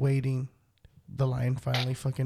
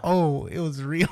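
surprised realization; 4 dB louder than usual. Retold or imitated. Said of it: "I'm like".

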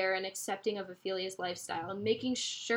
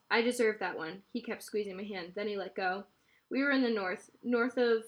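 steady read-aloud narration with voiced dialogue; story reading. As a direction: read the novel aloud to listeners. Reads novel aloud.

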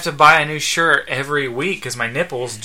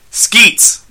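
straight-faced loud, high call; raised-voice summons without the laugh; Michael; 8 semitones higher, 7 dB louder than usual. Acted. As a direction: yell for your robot, keeping it serious. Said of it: "Michael yelled to his robot companion".

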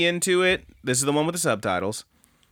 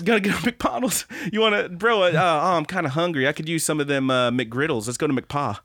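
higher dude-bro voice, laughing in; mock a hungry bro; 3 semitones higher than usual. Continuing bro impression.

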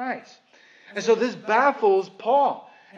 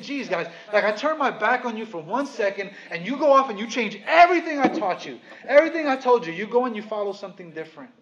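sassy Paul; 4 dB louder than usual. Retold or imitated. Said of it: "it's kinda sassy".

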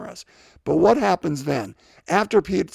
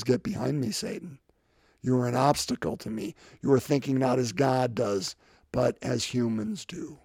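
low, soft stern rebuke; quiet but firm, turning on Peter; hushed rebuke; 4 semitones lower, 7 dB quieter than usual. Retold or imitated.

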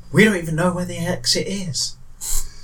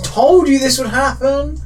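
smug; 8 semitones higher than usual. Acted. In-character jab at party.

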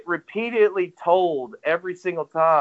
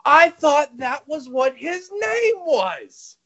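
higher, mock-innocent sarcastic voice; 9 semitones higher than usual. Retelling his own retort to the commentator, mock-innocent sarcasm. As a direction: play dumb with a sarcastic lilt. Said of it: "I went".

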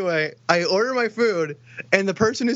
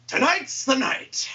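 slow, slightly raised distant call; old man calling from afar; 4 semitones higher, slower than usual. Retold or imitated. Old coworker heading out, drawn-out call from the distance. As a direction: lightly imitate a far-off old man. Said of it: "I hear from the distance".

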